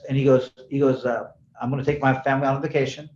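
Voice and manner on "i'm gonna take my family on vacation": unbothered, low-pitched retold voice; low and matter-of-fact, no worry; cool as a cucumber. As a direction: lightly imitate a calm, casual client. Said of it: "he's cool as a ... a cucumber".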